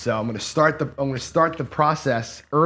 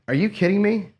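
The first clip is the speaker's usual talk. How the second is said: real frustration at a bad roll, pitched way up; exasperated outburst; 8 semitones higher than usual. Real, not acted. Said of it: "I was about ready to go crazy".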